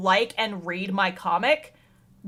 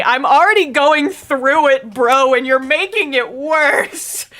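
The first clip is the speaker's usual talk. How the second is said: almost crying; 4 dB louder than usual. Retold or imitated. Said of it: "almost crying and being like".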